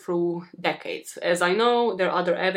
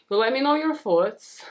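higher, wobbly sign-off voice; odd voice; 5 semitones higher, 4 dB louder than usual. Real, not acted. Host asking viewers for their thoughts, odd high voice. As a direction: ask viewers in an oddly raised voice. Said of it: "What was my voice today?".

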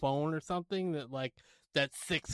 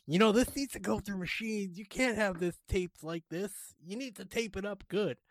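retold scolding, slightly raised pitch; mild berating; 4 semitones higher than usual. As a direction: imitate a clerk telling a customer off. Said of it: "the lady is berating him".

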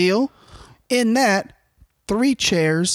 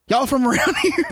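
nosy beach lady; 7 semitones higher than usual. Retold or imitated. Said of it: "She's like".

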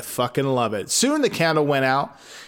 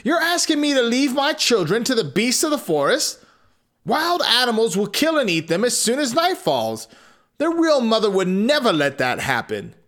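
upset father; 8 semitones higher than usual. A narrator's reading. Father protests.

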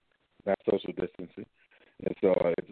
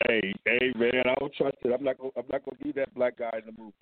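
muffled bad phone line; garbled like a bad connection; underwater. Real, not acted. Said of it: "You sound like you're underwater".

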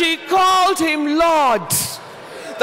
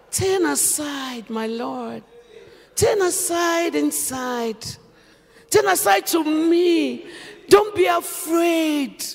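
assuring; 2 semitones higher, slower than usual. Acted. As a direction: coax him in gently to the tent. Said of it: "Assuring words".

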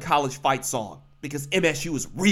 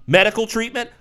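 scoffing, sharply higher and louder; incredulous; 8 semitones higher, 5 dB louder than usual. Real, not acted. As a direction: throw their words back in disbelief. Mocking the doctors' excuse.

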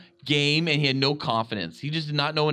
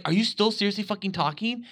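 higher-pitched, incredulous complaint; exasperated moviegoer venting at a chatterer; mildly indignant disbelief; retold exasperation; 5 semitones higher, faster than usual. Retelling annoyance at a chatterer.

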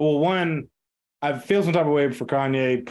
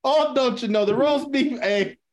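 put-on Irish accent; 7 semitones higher than usual. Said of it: "I'm going Irish".

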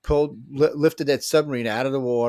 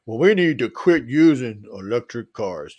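Chinese accent imitation; 3 dB louder than usual. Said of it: "this is what he sounds like".

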